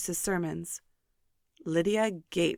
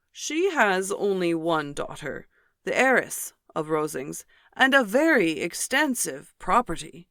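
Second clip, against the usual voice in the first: pompous Mr Collins; 6 dB louder than usual. Acted. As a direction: puff up each word like a self-important parson. Mr Collins on the heiress.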